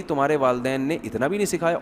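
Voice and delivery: soft, composed mother-in-law taunt; mock-saintly, quietly reproachful; very calmly. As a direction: slip the jab in gently. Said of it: "بڑے آرام سے کہے گی".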